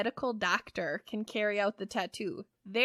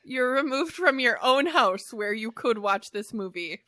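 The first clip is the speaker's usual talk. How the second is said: laughing; 6 dB louder than usual. Real, not acted. Laughing at being kicked out.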